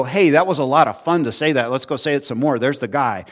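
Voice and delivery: put-on mildly excited kid chatter; lightly voiced eager children; a hint of children egging each other on. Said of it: "they go".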